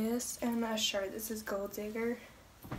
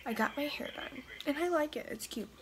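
whispering; 8 dB quieter than usual. Real, not acted. Whispering the hair update in gym.

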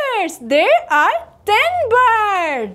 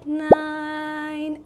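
normal talking voice

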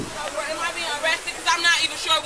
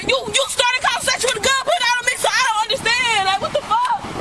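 angry; 6 semitones higher than usual. Real, not acted. Detainee confronts officer over gun.

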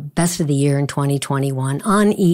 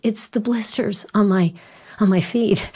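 lightly voiced hurting son; 5 semitones higher than usual. Chris answering trainer, crying.

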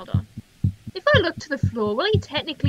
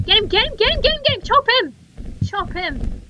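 rapid-fire high, loud urging; frantic urging; 6 semitones higher, 3 dB louder than usual. Real, not acted. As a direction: egg on the attack in an excited yell. Eggs on attack in game.

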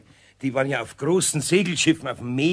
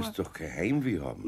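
gentle; 8 semitones lower, 7 dB quieter than usual. Acted. Eder softening gently.

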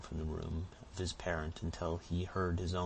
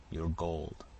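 a changed, darker repeat of the demand; menacing repeat. A narrator's reading. Robber pressing the peddler for his hoard, menacing repeat.

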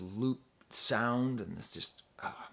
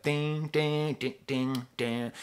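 imitating a bell beat; 3 semitones higher, much slower than usual. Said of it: "mimicking the beat".

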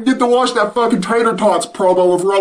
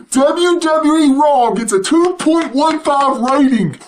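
eager news delivery, stress on two; excited announcement. Real, not acted. Vlogger announces the ratings news, with real excitement. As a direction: blurt out the number with glee.

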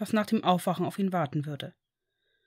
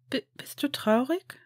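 cracking voice; 5 semitones higher than usual. A narrator's reading. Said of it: "mit brüchiger Stimme".

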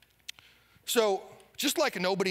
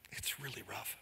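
much softer, lower, dropped to a hush; grim hush; 7 semitones lower, 15 dB quieter than usual. Acted. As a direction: let it sink to a grim hush. Preacher drops his voice on a grim point.

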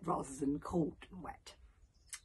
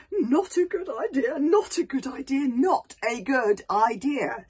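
higher, louder anxious muttering; nervous repeating; 8 semitones higher, 9 dB louder than usual. Acted. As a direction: keep repeating it in rising worry. Hiccup anxious repetition.

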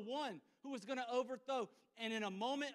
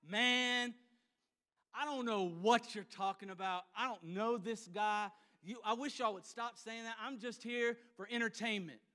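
frustrated; 3 dB louder than usual. Acted. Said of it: "he's frustrated at this point".

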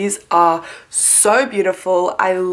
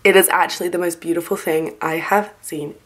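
sleepy morning voice; 2 semitones lower than usual. Real, not acted. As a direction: talk like you just woke up. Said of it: "Don't know why I'm talking like this".

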